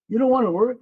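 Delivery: angry father. Retold or imitated. Father kicking son out.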